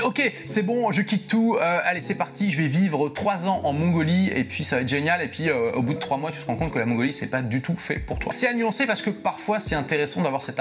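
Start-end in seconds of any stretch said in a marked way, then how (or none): 0.0-5.2 higher-pitched, eager mock decision; carried-away would-be adventurer, lightly acted; impulsive enthusiasm. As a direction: play someone impulsively throwing caution aside. Acts out a rash expat decision.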